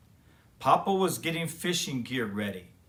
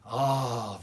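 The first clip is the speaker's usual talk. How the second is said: peaceful sigh; 3 semitones lower than usual. Acted. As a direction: breathe it out, content. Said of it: "let out great, peaceful sighs".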